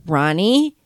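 low, soft retold warning; quiet warning. Acting out an offended girlfriend telling Ronnie to stop, quiet warning. Hurt woman warning her boyfriend.

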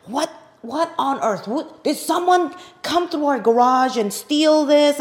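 fuming over a missing thirty dollar centerpiece; retold angry outburst. Mock indignant. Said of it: "I was getting all angry".

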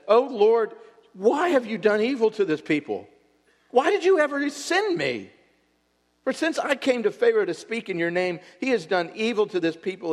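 loud, high, anguished cry to God; impassioned cry. Acted. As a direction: cry out in frustrated, passionate protest. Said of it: "Moses turned to the Lord and said".

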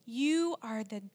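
slow, weighted accusation, held in; slow, restrained reproach. Retold or imitated. Accusing God after a relative's death, slow restrained reproach. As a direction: draw out each accusation, ending very drawn out. Retold angry prayer after a suicide.

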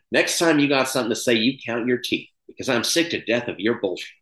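lightly imitated folksy threat, funny yet menacing; folksy menace. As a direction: quote it with a mild, comic menace. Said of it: "the folksy spin that you can put on it to make it funny and kind of menacing".

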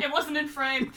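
talking through giggles; laugh-laced reply; real laughter. Real, not acted. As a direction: agree while still cracking up. Cracking up at the joke.

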